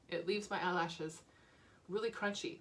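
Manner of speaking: talking through hiccups. Real, not acted. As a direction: speak with hiccups. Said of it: "Excuse me, I have the hiccups".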